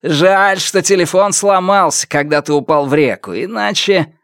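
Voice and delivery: high-pitched gloating villain; openly proud of himself. A narrator's reading. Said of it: "Он откровенно гордился собой". (самодовольно, высоким злорадным голосом)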